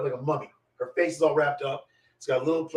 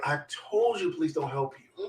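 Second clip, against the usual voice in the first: slow told-you-so with attitude; retold attitude; 4 dB quieter, slower than usual. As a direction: drag out a mild mock reproach. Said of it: "looked at me with this attitude".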